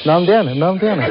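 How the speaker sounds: clumsy Kansai dialect retort; bad Kansai accent. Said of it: "下手な関西弁で話しかけてる".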